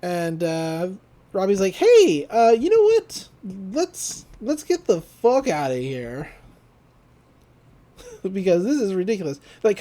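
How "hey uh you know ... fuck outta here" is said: higher-pitched, louder retold urging to leave; mock-urgent outburst that settles at the end; urgent exclaiming. Robbie tells the group to get out, urgent.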